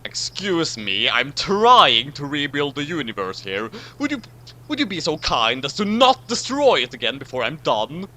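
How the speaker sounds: exasperated, with mock courtesy; annoyed politeness. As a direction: Fourth Doctor, annoyed, asks Q not to wreck it again. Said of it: "the Fourth Doctor was annoyed".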